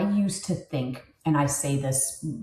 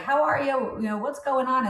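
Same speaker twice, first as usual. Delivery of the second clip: cheerful phone greeting; 6 semitones higher than usual. Shown as a demonstration. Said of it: "I'm always like".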